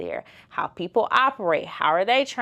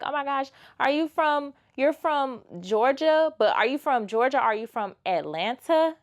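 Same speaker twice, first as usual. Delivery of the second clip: a light, higher mock British accent; imitating British accent; 7 semitones higher than usual. London locals quizzing her about Georgia, in a light British accent. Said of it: "their accent was just so cute".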